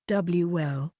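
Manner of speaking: slow, halting stammer. Acted. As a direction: trip over the first word. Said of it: "the director stammered".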